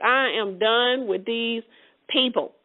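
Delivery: slow, deliberate exasperation, pausing before the last word; upset, fed up. Retold or imitated. Yah upset with the people, slow and fed up. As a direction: weigh out each word as if finished with them. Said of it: "So Yah was upset".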